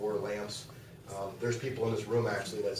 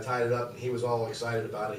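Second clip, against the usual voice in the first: normal talking voice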